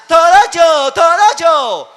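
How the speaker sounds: high, very loud whiny protest; mimicked yelling child. Child protesting to parents, shouted high and loud. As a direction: shout it as a tantrum, stretching the second one. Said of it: "Gritan a los papás".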